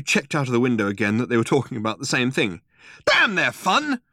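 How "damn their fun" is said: high, indignant hoot. Acted. Arthur running out of the pub at the wreckers, indignant hoot. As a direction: fling it out in fury. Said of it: "he hooted".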